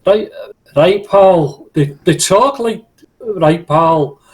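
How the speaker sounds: a weak Scottish "right, pal"; half-hearted jock impression; asked for a Scottish accent, a lightly done Scottish voice. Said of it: "I can do Jockinese".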